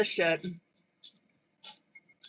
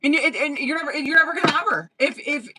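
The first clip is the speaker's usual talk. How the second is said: blunt tough love; 3 semitones higher than usual. Shown as a demonstration. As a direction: lay it on him straight, building frustration. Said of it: "this is what I would say to him".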